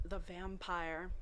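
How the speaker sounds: slow, low and soft title reading; dramatic title. Acted. Reader announcing the chapter title, slow and hushed. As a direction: intone the chapter title ominously.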